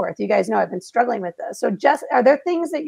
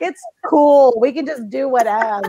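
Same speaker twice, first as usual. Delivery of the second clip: tipsy carefree; 3 semitones higher than usual. Retold or imitated. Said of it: "I'm in the vodka at this point".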